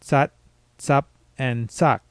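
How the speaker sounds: careful, slowed tsat, tsap, tsak; unreleased final stops. Shown as a demonstration. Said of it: "tell the difference between".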